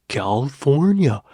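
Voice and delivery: put-on Californian, words swallowed; swallowed Californian accent. Shown as a demonstration. Vlogger testing the video's California comparison, swallowed Californian accent. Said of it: "swallow their words like a Californian".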